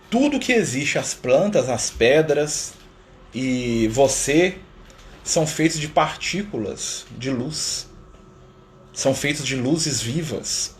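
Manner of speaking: very slow, awed revelation; maravilhado, vendo a luz. Retold or imitated. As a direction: draw out each word as if seeing light in everything. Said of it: "falou assim". (devagar e maravilhado, revelando a luz em tudo)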